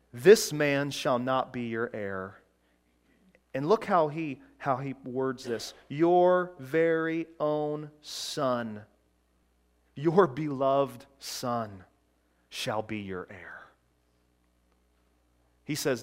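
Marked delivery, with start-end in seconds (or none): 0.1-2.4 lower, slow and gentle, as God speaking kindly; patient, gentle voice of God. Retold or imitated. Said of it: "God very gently and patiently says". 5.9-13.7 gentle and patient. Retold or imitated. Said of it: "God very gently and patiently says".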